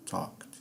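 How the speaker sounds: "talked" in one syllable, the E ignored; silent E in talked. Shown as a demonstration. Teacher repeating talked after the explanation, E not pronounced. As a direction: model "talked" with the -ed as a bare final t. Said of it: "você vai pronunciar talked".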